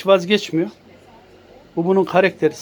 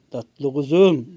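slow, lower "Tatlı kuzum"; tender slow; 5 semitones lower, much slower than usual. Real, not acted. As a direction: stretch it out lovingly.

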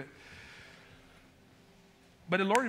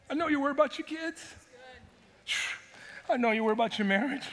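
gentle invitation; 4 semitones higher, faster than usual. Acted. Jesus inviting weary people, tender and gentle. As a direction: coax them in kindly. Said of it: "And all he said was an invitation".

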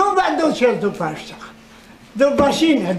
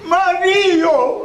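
calling out a name; 4 semitones higher than usual. Shown as a demonstration. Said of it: "Eu zic așa".

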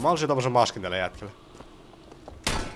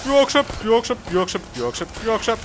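real panic, shouting to run; panicked yelling; 12 semitones higher, much slower than usual. Real, not acted. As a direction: yell in real panic under fire.

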